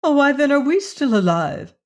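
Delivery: anguished wail at the news. A narrator's reading. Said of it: "she wailed".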